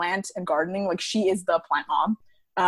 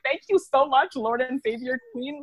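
gushing thanks; 5 semitones higher than usual. Retold or imitated. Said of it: "And I was like".

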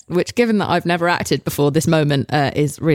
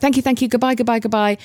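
higher, hurried flustered thanks; flustered goodbye; 6 semitones higher than usual. Retold or imitated. Leaving the audition room, in flustered higher babble.

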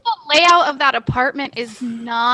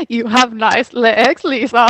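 slow, drawn-out creepy compliment; slow, lower-pitched mock flattery; weird compliment; 4 semitones lower, slower than usual. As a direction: mimic an awkward compliment, stretching it out. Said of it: "really weird compliments".

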